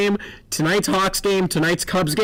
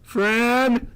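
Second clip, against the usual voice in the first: calling out; 7 semitones higher than usual. Pretend. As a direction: call the name out high. Calling out a name.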